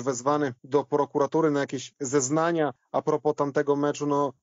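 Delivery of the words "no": normal talking voice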